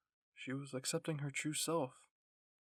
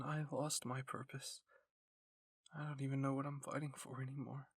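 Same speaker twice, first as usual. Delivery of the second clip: broken. A narrator's reading. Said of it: "She sounded so broken".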